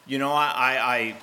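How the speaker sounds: a shaken man listing everything. Acted. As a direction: plead with rising worry. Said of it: "now the guy is shaken".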